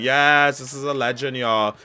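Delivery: high, loud fan cheer; retold excited scream. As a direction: cheer loudly for a beloved star. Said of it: "I literally screamed".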